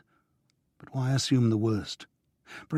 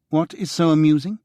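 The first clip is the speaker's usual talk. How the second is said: sharp, loud, higher retort; angry; 6 semitones higher, 7 dB louder than usual. A narrator's reading. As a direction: snap back at him, offended. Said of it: "she asked angrily".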